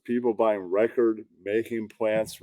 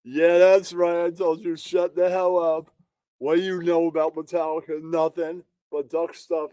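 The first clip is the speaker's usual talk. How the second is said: higher, smug bragging jab; cocky taunt; 5 semitones higher than usual. Retold or imitated. Streamer voicing a smug guy mocking a rival, cocky taunt. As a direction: gloat at him, pleased with yourself. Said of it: "And he's like".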